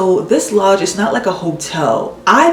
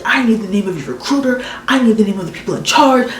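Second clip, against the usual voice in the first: mildly raised mama-bear demand; imitating screaming mom; 4 semitones higher, faster than usual. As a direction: play an angry mom, pitched up. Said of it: "She's screaming in my ear".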